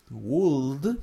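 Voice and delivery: "would" said slowly with the written L sounded. Shown as a demonstration. Teacher showing the spelling of a word, L sounded in "would". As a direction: say "would" as spelt, letting the L be heard. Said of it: "pero la L no se pronuncia".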